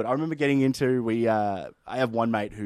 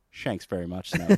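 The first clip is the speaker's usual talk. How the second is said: cheeky pun, half laughing; 3 semitones lower than usual. Retold or imitated. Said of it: "raises his eyebrows and just gives him a".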